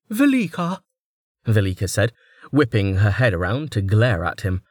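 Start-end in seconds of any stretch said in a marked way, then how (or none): 0.1-0.8 sharp. A narrator's reading. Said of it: "a bit sharper than she'd intended".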